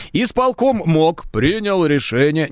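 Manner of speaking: slow, drawn-out official statement; Михаил Дегтярёв parody. Acted. Host reads the minister's comment aloud, slow measured impression. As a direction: stretch it out with measured gravity. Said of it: "пародировать дальше".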